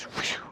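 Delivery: airy whistled "whew"; soft mimicked whoosh; imitated whoosh. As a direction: imitate something flying off with a quick whew. Imitates plate flipping away.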